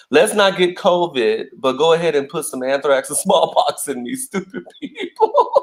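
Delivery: mock the objectors, ending in a high laugh; mock sarcasm. Sarcastic mock of anti-vaxxers, breaking into laughter.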